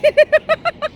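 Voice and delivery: short high giggle; quick giggles, pitched high; laugh. Real, not acted. Owner amused by dog and worker, high giggle.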